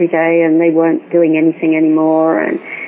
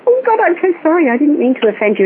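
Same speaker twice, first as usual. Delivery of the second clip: much higher, hasty sorry; flustered apology; 8 semitones higher than usual. Retold or imitated. Apologising to the stern vet on the phone, flustered. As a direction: blurt an apology like you've been caught out. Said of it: "I kind of went".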